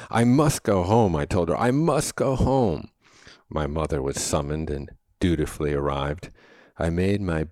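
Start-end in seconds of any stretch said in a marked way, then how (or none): 0.1-1.1 retold plea. Child pleading to nurse. 1.6-2.9 retold plea. Child pleading to nurse, insisting.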